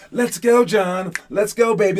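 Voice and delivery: hyping yourself up. Retold or imitated. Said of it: "I'll hype myself up".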